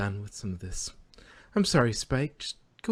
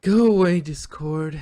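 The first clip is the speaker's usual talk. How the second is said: loud, high, half-pretend annoyed shout; put-on annoyance; 5 semitones higher, 10 dB louder, slower than usual. A narrator's reading. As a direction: sound annoyed but secretly curious. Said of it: "trying to sound annoyed".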